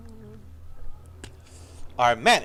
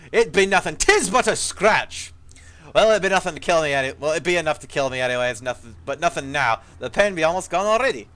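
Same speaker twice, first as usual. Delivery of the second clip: gruff dry dwarf; 4 dB louder than usual. Acted. Ghost dwarf warning the hero of danger, gruff and loud. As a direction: play an old dwarf soldier, rough and urgent. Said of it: "his voice gruff and dry".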